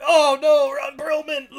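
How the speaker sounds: high, loud hammed-up cry of dismay; mock dismay. Fan mourning the stabbed Norik, in hammed-up high dismay. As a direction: wail it like a fake shocked fan.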